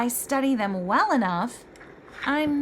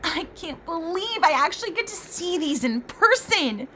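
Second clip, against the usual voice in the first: higher, eager gush; excited; 5 semitones higher than usual. Acted. The scholar seeing the gems up close, excited. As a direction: bubble over with delight.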